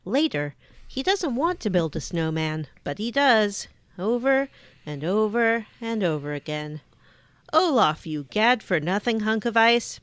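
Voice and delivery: scripted last-time-on show recap read; recap narration. Acted. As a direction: narrate the previous episode like a TV recap. Reads previous-episode recap.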